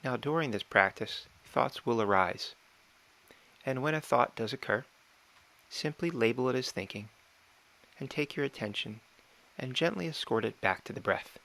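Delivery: calm, measured meditation guide with long pauses; unhurried meditation instruction, phrase by phrase; guided meditation. Real, not acted. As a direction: gently talk them through it, pausing between phrases.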